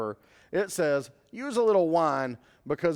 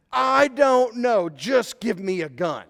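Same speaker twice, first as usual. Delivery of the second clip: exasperated demand; 3 semitones higher, 5 dB louder, slower than usual. Retold or imitated.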